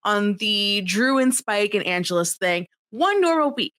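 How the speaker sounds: exasperated plea. Retold or imitated. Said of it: "this is how mad Giles was".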